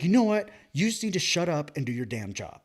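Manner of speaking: hammed-up boss telling him off; mock angry boss.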